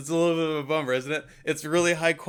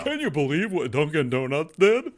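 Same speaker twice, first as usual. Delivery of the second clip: outraged customer; 3 semitones higher, 4 dB louder than usual. Pretend. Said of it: "Hey, you did that pretty good".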